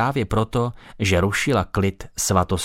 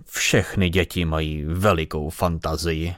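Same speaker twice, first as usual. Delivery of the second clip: lower, dry and matter-of-fact; dry remark; 4 semitones lower than usual. Acted. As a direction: state it drily, unimpressed. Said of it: "suše zkonstatoval". (suché, nezaujaté konstatování)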